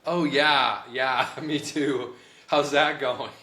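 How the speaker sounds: mocking, laughing reply; a hint of a smug coworker; sarcastic coworker. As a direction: drip with sarcasm.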